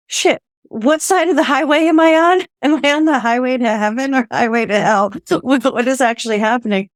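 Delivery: startled comic panic, speeding up; confused panic. Retold or imitated. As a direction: blurt it out, bewildered and half laughing. Wondering if she is dead.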